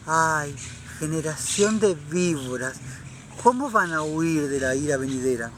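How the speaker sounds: limp, whiny version of the rebuke; mock timid rebuke. Preacher mocks how critics imagine John spoke, mild whiny parody. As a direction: mockingly play John the Baptist as meek and prissy. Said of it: "Qué estúpido, qué ridiculez".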